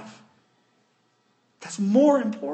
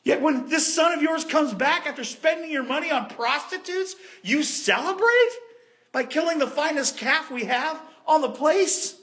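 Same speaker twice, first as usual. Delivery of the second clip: indignant protest; 5 semitones higher than usual. Acted. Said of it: "The older brother was angry".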